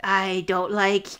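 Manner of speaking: slow, deliberate silly verse recital; rhyming goblin. Acted. Host invents rhymes for the goblin, mock rhyme recital. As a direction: recite a daft rhyme slowly, pausing between phrases. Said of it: "He's like".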